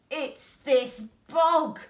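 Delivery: loud, slow howl of a dog; upset dog howling about the bog. A narrator's reading. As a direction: wail it like a howl.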